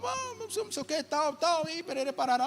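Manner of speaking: high, hushed nonsense ramble; dad telling a story. Retold or imitated. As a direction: imitate dad trailing through filler words. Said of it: "Parece meu pai contando história".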